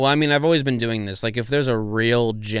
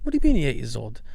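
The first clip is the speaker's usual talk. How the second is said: Mark Wahlberg; 3 semitones higher, faster than usual. Retold or imitated. Host repeating the clip's doctor to a child, imitated voice. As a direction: mimic the actor as a baffled doctor. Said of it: "this kinda high-pitched kinda voice".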